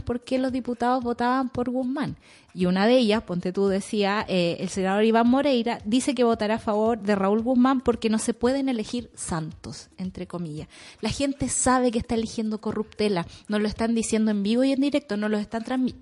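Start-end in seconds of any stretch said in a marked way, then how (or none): 4.3-15.9 rushing on without stopping to breathe; running out of air mid-sentence; all in one breath. Real, not acted. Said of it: "Respira, respira, respira".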